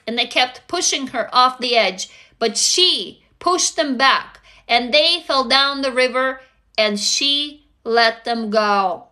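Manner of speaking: solemn read of a follower's story. A narrator's reading. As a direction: read it like a dramatic closing line. Reads a follower's story aloud.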